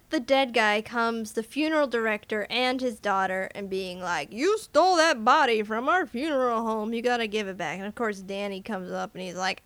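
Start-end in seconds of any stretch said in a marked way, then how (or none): 4.3-7.8 mildly indignant, pushed a little louder; hammed-up accusing outburst; lightly played outrage; mock accusation. Acting the funeral director accusing.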